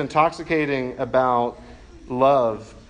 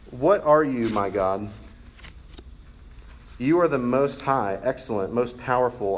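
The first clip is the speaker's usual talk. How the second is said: prayer reading. Acted. Reads Augustine's prayer aloud.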